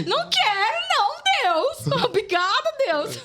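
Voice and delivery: high, loud, amused protest; laughing refusal. Real, not acted. Jokingly telling God no thanks to being a warrior, laughing. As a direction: squeal it playfully on the edge of laughter.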